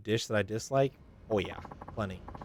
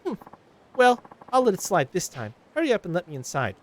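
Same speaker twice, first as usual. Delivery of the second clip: higher, scolding complaint; nagging Karen; 9 semitones higher, 5 dB louder than usual. Acted. Karen passenger scolding the taxi driver, higher nagging voice. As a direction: nag the driver for being late. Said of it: "This is a Karen".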